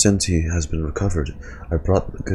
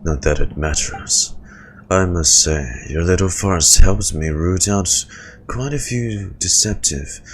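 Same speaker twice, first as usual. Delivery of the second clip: menacing villain voice; 2 semitones lower than usual. Acted. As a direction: sneer it like a scheming officer. Villain monologue voice.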